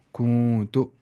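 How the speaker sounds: "کو" long and nasal, then short "تو"; nasal ikhfa. Shown as a demonstration. Teacher joins the letters, nasal ikhfa. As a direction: hum "کو" before releasing "تو". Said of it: "اخفا کر دیں گے".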